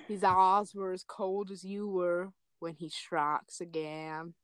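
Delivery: slow, dramatic reading; Lynn voice. Acted. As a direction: hype up the last sentence, slowly. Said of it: "read it in the Lynn voice".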